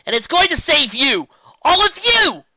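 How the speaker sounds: high, loud defiant shout; yelling back. A narrator's reading. Twilight shouting back at Spike. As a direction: throw it right back at him.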